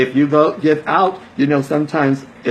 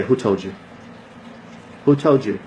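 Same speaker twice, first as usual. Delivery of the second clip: mock surprise; 4 semitones lower, 3 dB quieter than usual. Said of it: "They're gonna say".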